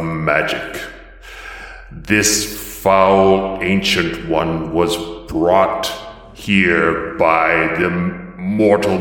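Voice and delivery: slow, grave decree, only lightly voiced; a goddess pronouncing doom, word by word; Mavros's angry voice. Goddess Mavros proclaiming to gods and mortals, slow and grave. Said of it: "this deep voice that is a blend".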